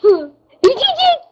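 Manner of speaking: high, slow, drawn-out call to go away; drawn-out shout. Real, not acted. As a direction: stretch the shout, calling them off. Shooing the cats away.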